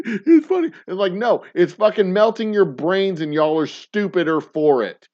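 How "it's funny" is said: high, louder mock of a smug drinker; a much higher, taunting imitation. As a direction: sneer it like the people you despise.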